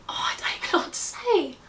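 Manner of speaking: high, whispery, choked-up voice; real tears, voice dropping to a soft whisper; overcome with emotion. Real, not acted. Vlogger lost for words starting her announcement, choked up. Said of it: "I'd start getting emotional".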